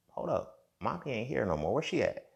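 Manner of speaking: put-on little girl voice. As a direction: play the small girl looking for mommy, pitch up. Voicing the young niece.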